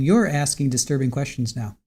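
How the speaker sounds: single out "You're" with a pitch peak, then drop; stress on YOU'RE. Shown as a demonstration. YouTuber re-quoting the defendant to the questioner, stress on "You're". Repeats quote stressing first word.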